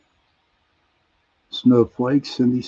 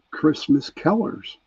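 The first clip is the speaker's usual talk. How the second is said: "Kellers" for colors in a Pittsburgh accent; natural Pittsburgh vowel in Kellers; 3 semitones higher than usual. Real, not acted. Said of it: "it's my Pittsburgh accent".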